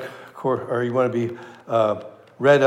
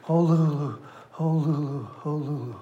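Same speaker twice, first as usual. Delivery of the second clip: mumbled, fading softer each time; a lightly voiced inmate mumbling to himself, trailing off; 5 dB quieter than usual. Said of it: "all he keeps mumbling is".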